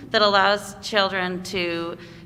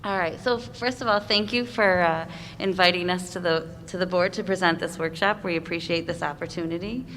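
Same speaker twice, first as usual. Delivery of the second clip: speaking through a face mask; words dampened by a mask; muffled through mask. Real, not acted. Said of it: "can you hear me with the mask okay".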